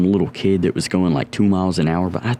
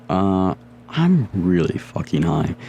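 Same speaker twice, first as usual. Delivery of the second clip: slow stoned drawl; slower than usual. Retold or imitated. Stoned confession to his sister.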